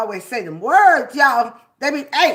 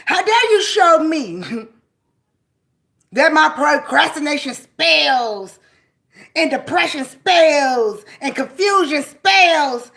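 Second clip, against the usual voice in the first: rising, louder, slowing indignant challenge; indignant how dare you; 5 dB louder than usual. Acted. Speaking back to the anger, rising indignant outcry.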